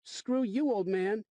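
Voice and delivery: put-on high, loud bratty kid; rude kid. A narrator's reading. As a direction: sneer it like a mouthy punk. Rude kid taunting narrator.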